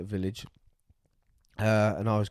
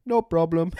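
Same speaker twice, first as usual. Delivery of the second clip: gunman's line; 6 semitones higher, 4 dB louder than usual. Retold or imitated. Gunman's casual reply retold.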